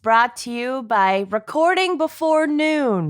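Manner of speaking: raspy morning voice; a rough, raspy just-woke-up voice. Real, not acted. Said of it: "this raspy version of my voice".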